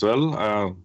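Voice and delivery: Quentin. Acted. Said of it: "Quentin goes".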